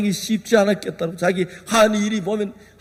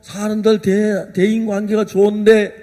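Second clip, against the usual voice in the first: ordinary talk, nothing marked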